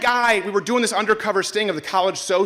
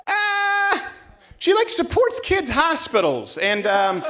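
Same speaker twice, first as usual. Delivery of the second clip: mock Michigander; slower than usual. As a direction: act out locals patiently defending her. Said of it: "everyone in Michigan is like".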